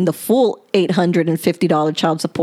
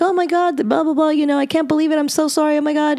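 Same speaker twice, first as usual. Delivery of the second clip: higher, mock panicked apology; lightly hammed-up frantic ex; imitating freaking out; 8 semitones higher, faster than usual. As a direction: play him falling apart over it. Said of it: "you know, freaking out".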